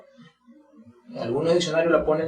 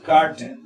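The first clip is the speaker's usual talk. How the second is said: carton with a long, strong CAR, falling end; stressed, lengthened first syllable; 4 dB louder than usual. Shown as a demonstration. Teacher explains R words lengthen, long stressed CAR in carton. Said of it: "se alargan un poco".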